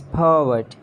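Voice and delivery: "pervert" as PUH-vut; British pronunciation. Shown as a demonstration. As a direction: drop the Rs in "pervert". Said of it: "It's pervert".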